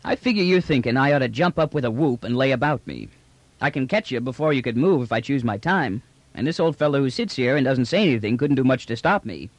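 easy, slangy trader's patter; lightly voiced trader sizing up his captors; brash trader, comfortable. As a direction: talk cockily, at ease. Trader settles into cocky talk.

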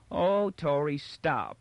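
high mocking echo, pushed harder; mocking singsong complaint; impatient mimicry. A narrator's reading. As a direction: mimic a weary plea with impatience. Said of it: "he mimicked impatiently".

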